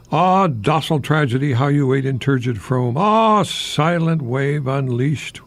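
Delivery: hammed-up grand recital, slow and swelling, then a flat "phooey"; over-the-top poetic declaiming; mock serious poem. Radio host mock-reads his nonsense serious poem, grandly. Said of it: "what I call a serious poem".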